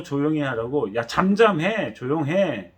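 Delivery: harsh scolding shout at a beggar; scolding crowd. Retold or imitated. Crowd scolding the blind beggar, a mock angry shout. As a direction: scold him to shut up. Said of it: "아예 꾸짖었어요".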